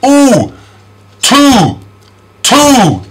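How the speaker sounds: high, long Ooh in Two; vowel demonstration. Shown as a demonstration. Teacher models a familiar sound, high long Ooh in Two. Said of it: "You all know this sound".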